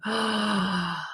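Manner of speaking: long, soft awed gasp; awed breath. Retold or imitated. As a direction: let out a hushed breath of wonder. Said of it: "my whole being was like".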